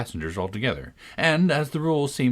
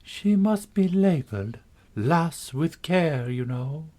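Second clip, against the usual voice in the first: gentle voice; 6 semitones higher, slower than usual. A narrator's reading. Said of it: "a very gentle voice".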